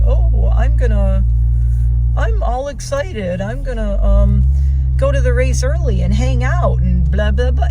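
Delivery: mock excited racer. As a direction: ham up an overeager racer. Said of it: "some people like this whole".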